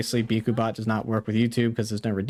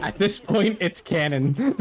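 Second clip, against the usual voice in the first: laughing; 7 semitones higher, slower than usual. Real, not acted. Laughing about the toes joke.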